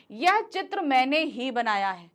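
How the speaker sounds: मैंने ही pressed; stress on मैंने. Shown as a demonstration. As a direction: lean on मैंने ही. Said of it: "मैंने शब्द पर जोर देने के लिए".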